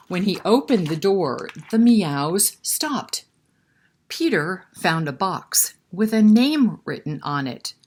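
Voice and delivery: put-on storyteller voice for kids; story narration. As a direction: tell it like a read-aloud.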